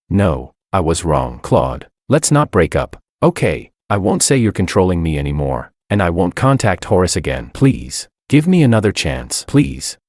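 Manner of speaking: plain reading voice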